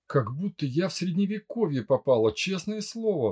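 plain reading voice

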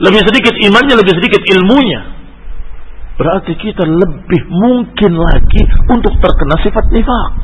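insistent preacher raising the pitch; emphatic preaching. Acted. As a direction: press the warning on listeners. Preaches a warning.

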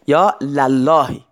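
slow, emphatic یا للهی with the open "la" stretched; fatha on the lam. Shown as a demonstration. Teacher to students, repeating یا للهی slowly for the fatha.

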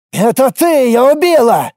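high, loud hysterical scream; hysterical wail. A narrator's reading. Garlin hysterically accusing Lorana. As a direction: shriek the accusation. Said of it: "истерично завопил маг".

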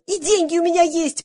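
high-pitched insistent squeal. A narrator's reading. Valya insisting that she has money, squealing. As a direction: protest in a squeal. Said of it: "завизжала Валя".

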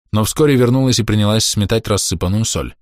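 ordinary delivery, nothing marked

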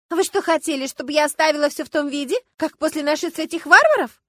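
высоко и громко; возмутись варварами; возмущение. Acted. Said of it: "возмутилась дама". (возмущённо)

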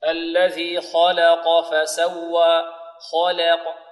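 slow recitation, heavy KHA and QAF, light LAM in "خلق"; measured "خلق": thick first and last letters, thin middle. Shown as a demonstration. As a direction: draw it out, keeping only the "ل" of "خلق" light. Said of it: "فنفخم الخاء ونرقق اللام".

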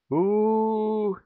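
usual speaking voice

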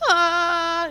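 high loud mock child wail. Crying boy answering the stranger, high wail.

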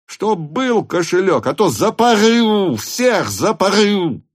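high, angry yell at the servant; furious shout. A narrator's reading. Denisov shouts at the servant Lavrushka, furious. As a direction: bellow it, threatening. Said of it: "кричал Денисов".

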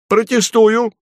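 sharp, high, loud objection; an official who can't wait to object; impatient protest. A narrator's reading. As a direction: cut in impatiently. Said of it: "нетерпеливо сказал Фарфуркис".

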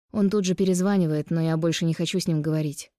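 plain reading voice

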